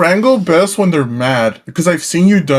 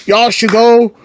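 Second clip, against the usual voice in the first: higher, stretched-out Southern imitation; Southern accent; 3 semitones higher, slower than usual. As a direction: ham up a slow Southern drawl. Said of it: "with the Southern accent".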